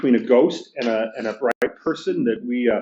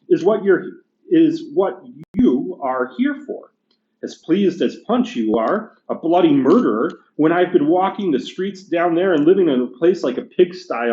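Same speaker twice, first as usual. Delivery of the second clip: higher, indignant working-class ghost; gruff big ghost; 4 semitones higher, 3 dB louder than usual. Acted. Teacher reading the ghost complaining to the bright spirit, indignant. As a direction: bluster like an aggrieved ghost.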